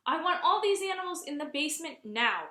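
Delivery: loud firm order. Acted. Mother ordering all pets to the basement, loud and firm. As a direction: lay down the law to the family. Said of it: "she ordered".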